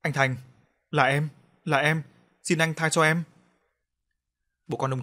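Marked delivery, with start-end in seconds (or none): 0.0-3.2 louder, panicked begging; terrified plea for mercy, stumbling; scared thief crying out to be spared; frightened crying out. A narrator's reading. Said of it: "Tên kia ú ớ la lên".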